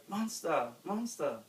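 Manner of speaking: loud calling cry. A narrator's reading. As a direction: call out after him. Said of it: "the trio cried".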